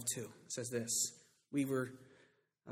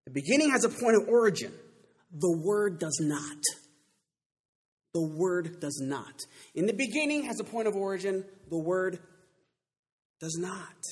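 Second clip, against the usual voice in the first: raised, loud teaching from the pulpit; emphatic preaching; 5 semitones higher, 7 dB louder than usual. Acted. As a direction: drive the point home to the congregation. Preacher drives home a phrase.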